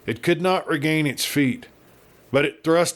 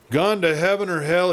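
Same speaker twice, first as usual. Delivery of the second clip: violent cry; 6 semitones higher than usual. Acted. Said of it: "he cried with startling violence".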